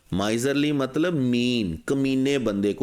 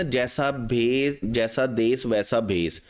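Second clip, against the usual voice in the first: slow proverb; slower than usual. Retold or imitated. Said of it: "तो वो कहते हैं ना".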